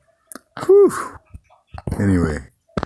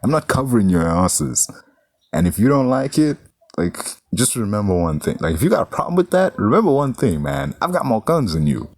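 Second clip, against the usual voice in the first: a hint of higher, tougher boss; lightly voiced indignant Howard; 3 semitones higher than usual. Howard faces the Toro brothers, mild indignation. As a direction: mildly stand your ground. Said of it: "Howard is just looking at him like".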